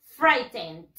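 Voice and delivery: frightened as "FRY-tend", D at the end; careful model of "FRY-tend"; final D pronounced. Shown as a demonstration. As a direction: finish "frightened" on a clear D. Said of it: "le vamos a dar la D al final".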